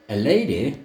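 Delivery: slow, high, languid Southern lady; languid drawl. A narrator's reading. Narrator voicing Serena to Luther, languid drawl. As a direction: drawl it out like a reclining grande dame. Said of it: "she would say in her most languid, multisyllabic drawl".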